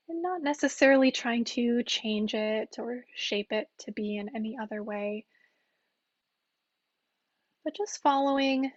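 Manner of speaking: calm, unhurried meditation guide with long pauses; guided meditation. Real, not acted. Teacher guiding listeners through mindful breathing, calm meditation voice.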